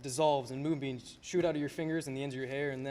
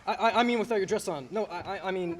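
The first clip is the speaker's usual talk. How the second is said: flustered laugh; 5 semitones higher, 4 dB louder than usual. Acted.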